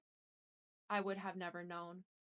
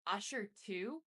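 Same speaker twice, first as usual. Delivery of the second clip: revulsion; slower than usual. A narrator's reading. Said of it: "Kimora said with revulsion".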